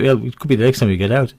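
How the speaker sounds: ordinary talk, nothing marked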